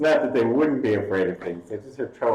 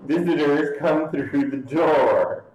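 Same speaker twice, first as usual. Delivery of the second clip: dopey cartoon bellow; 5 semitones higher, much slower than usual. Ogre insists he is door expert.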